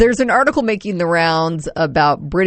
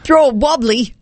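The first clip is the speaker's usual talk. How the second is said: raised-pitch amateur British accent; playful stab at British, pitched up; attempted British accent; 4 semitones higher than usual. Shown as a demonstration. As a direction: try the phrase in a British accent. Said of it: "say these all with a British accent".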